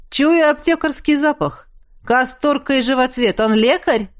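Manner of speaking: bright keen guess; eager guessing. Acted. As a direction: jump in eagerly. Eager guest voiced guessing.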